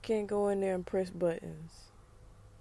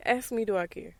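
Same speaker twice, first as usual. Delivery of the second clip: louder, punched defiant question; loud challenge; 8 dB louder than usual. Real, not acted. Daring critics to ask, loud and defiant. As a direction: throw it out loud like a dare.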